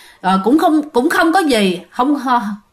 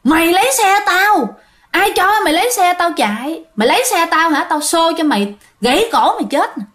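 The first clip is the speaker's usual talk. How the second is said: higher-pitched angry ghost, only mildly raised; retold threat, pitched up in indignation; imitated angry yell; 5 semitones higher than usual. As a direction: act out a vengeful spirit scolding. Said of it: "khi mà la hét vô lỗ tai".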